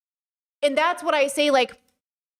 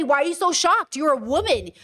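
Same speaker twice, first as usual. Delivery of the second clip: victim-blaming scolding; 3 semitones higher than usual. Acted. Voicing those who blame a shocked woman, scolding. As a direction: act out someone incredulously blaming her. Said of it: "the language that they weaponize against us".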